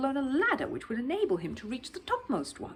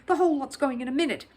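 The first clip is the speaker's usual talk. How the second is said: shouting; 5 semitones higher, 6 dB louder than usual. Acted. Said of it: "shouted the foreman".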